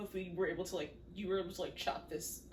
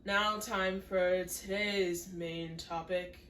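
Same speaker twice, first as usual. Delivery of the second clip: slow, grand announcer intro; 2 semitones lower, much slower than usual. Pretend. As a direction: announce it like a host. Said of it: "I don't know why I'm presenting it like that".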